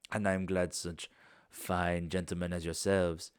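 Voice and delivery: lightly voiced courteous foreign host, unhurried; a hint of a genteel host saying farewell; polite foreign host. Bastian bidding guests goodbye, lightly voiced.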